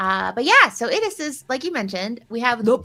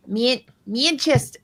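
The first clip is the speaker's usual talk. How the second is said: próba akcentu z Manchesteru. Shown as a demonstration. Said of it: "what's a Manchester accent".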